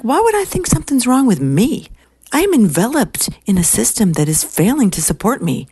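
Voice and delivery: high, emphatic, swooping indignation; no-BS secretary. Retold or imitated. Secretary telling women the system fails her, emphatic. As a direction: imitate her forceful rebuttal. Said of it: "she's like, no B S".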